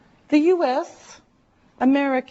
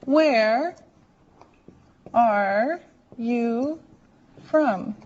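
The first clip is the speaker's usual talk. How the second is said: slow, word by word; much slower than usual. Shown as a demonstration. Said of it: "here's the question and how you say it".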